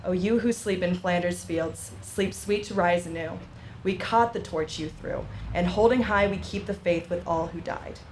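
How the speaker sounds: measured, solemn reading of a war poem; poem recitation. Acted. Speaker reciting a war poem at a memorial ceremony, solemn.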